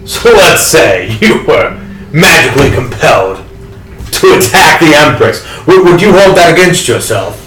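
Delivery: heated plea rising in pitch; acted indignation; indignant argument. Acted quarrel with guard.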